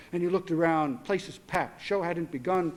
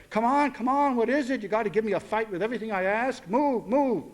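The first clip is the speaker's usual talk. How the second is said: impatient hurrying; 3 semitones higher than usual. Acted. Father pushing dragging daughter to move faster, impatient. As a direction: hurry her along.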